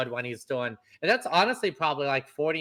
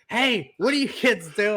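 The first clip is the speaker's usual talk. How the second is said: raised, higher-pitched telling-off; mock yell; 7 semitones higher, 5 dB louder than usual. Fan imitates the robed actor yelling at kids, mock yell. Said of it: "like, yelling at him".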